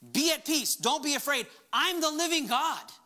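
Jesus commanding his disciples. Acted. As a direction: proclaim each as an order. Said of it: "He gave two commands".

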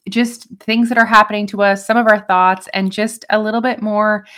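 talking around a retainer; wearing a retainer. Real, not acted. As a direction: speak with retainers in your mouth. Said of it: "can you tell I have my retainers in?".

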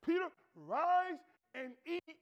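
slow, booming call from above; God commanding Peter, slow and loud. Acted. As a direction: call him slowly and loud, like God from heaven. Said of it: "here God's saying to him".

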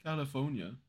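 "California" with the R dropped; can't say Rs. Shown as a demonstration. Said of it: "couldn't say their R's".

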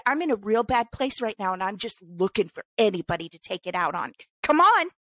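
daring the driver to take it out on her, building taunt; defiant dare. Retold or imitated. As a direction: taunt him to bring it on. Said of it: "I said".

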